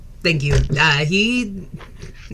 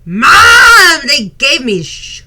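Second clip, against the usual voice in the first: put-on sugar-high kid; 7 semitones higher, 6 dB louder than usual. Kid voice excuses himself to mom.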